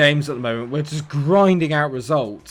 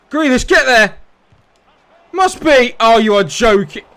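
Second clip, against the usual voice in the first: high, loud urging; frustrated shout; 9 semitones higher, 9 dB louder than usual. Real, not acted. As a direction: yell at the screen in frustration. Urging on his player, frustrated.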